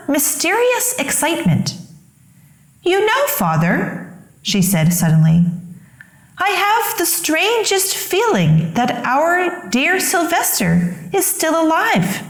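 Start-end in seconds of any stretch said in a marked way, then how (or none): 2.8-12.2 higher, hushed mother with a strange feeling; mother's voice. A narrator's reading.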